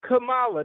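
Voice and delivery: Kamala as kuh-MAH-lah, stress on MAH; Kamala with the long middle MAH; Indian pronunciation. Retold or imitated. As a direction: repeat Kamala the way the Indian coworker said it. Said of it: "That's how she said her name".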